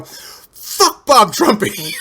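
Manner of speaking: slow, high shouted taunt; a fan's high, drawn-out jeering yell; retold shout. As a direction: yell it out slowly like a rallying cry. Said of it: "and I go".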